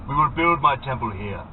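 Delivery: casual, unbothered menace; calm villain. A narrator's reading. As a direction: say it as if nothing happened. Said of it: "as if nothing had happened".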